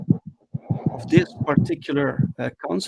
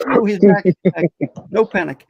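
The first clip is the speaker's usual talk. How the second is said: louder, happy relief; relieved excitement; 4 semitones higher, 7 dB louder than usual. Real, not acted. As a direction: greet the returning host gladly. Host returns to the call.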